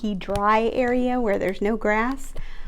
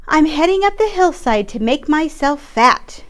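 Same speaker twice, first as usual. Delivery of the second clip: higher little goat voice; lightly voiced goat going uphill; small goat, higher pitch; 5 semitones higher, 5 dB louder than usual. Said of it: "the second billy goat bleated".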